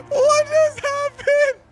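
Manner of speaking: high, slow bewildered question; dazed disbelief. Real, not acted. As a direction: stretch it out in shock. Disbelief after the crash.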